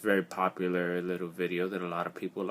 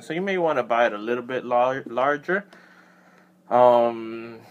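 speaking through helmet chin bar; enclosed padded helmet voice; muffled inside a helmet; 3 semitones higher, 9 dB louder than usual. Real, not acted. Seen 3: Full-face helmet worn throughout, chin bar covering the mouth; references show no helmet.

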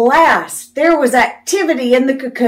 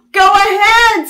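high, eager little cry; excited pollywog, much higher; excitedly; 10 semitones higher, 4 dB louder than usual. Acted. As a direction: urge her on, thrilled. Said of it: "said the pollywog excitedly".

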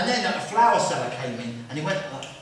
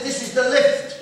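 deadpan punchline; 7 semitones higher, 6 dB louder than usual. Retold or imitated.

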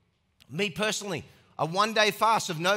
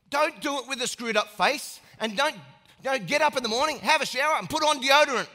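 raised preaching; 7 semitones higher, 5 dB louder than usual. Real, not acted.

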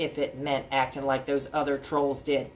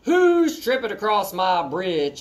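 yelled; 2 semitones higher, 5 dB louder, slower than usual. Acted. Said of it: "I yelled".

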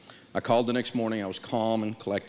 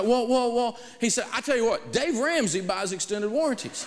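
salesman voice; 11 semitones higher than usual. Retold or imitated.

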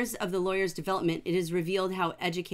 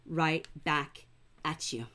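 tender reply; 3 semitones lower, 4 dB quieter, much slower than usual. Real, not acted. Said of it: "And I would say".

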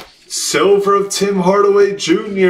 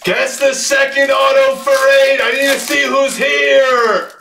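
excited announcing; 5 semitones higher than usual. Real, not acted. Breaker announcing a second auto to the group, excited announcing. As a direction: call it out to the room, pitched high.

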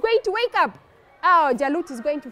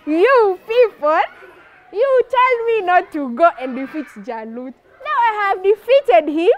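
triumphant boast; 4 dB louder than usual. Acted. Dawood bouncing before those who doubted him, boastful. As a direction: rub it in to the doubters. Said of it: "bouncing like".

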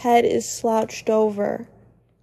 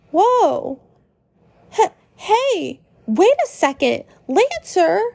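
alarmed Susie; 5 semitones higher than usual. Acted. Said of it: "Susie is alarmed".

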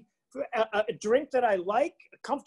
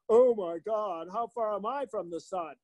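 pretentious wine snob; 2 semitones lower than usual. Retold or imitated. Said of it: "you walk around acting like".

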